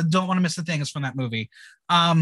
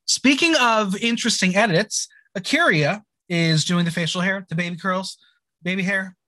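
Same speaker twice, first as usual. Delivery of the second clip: lightly performed episode-recap narration; measured podcast recap read; scripted recap read; 3 semitones higher than usual. Acted. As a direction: read it out like a recap host, names set apart.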